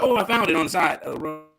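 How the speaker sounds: giggling fake innocence, rising high; laughing lie. S2 as a child lying to his mom, laughing. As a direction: kid lying through laughter. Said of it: "I said".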